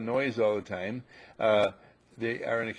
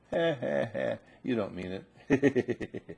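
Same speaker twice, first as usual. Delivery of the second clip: mock puppy voice; slower than usual. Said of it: "the puppy says".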